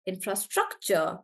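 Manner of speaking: infrastructure with STRUC as the strong beat; stress on STRUC. Shown as a demonstration. Teacher testing what sounds right, infrastructure stressed on STRUC. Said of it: "Maybe it's on struck".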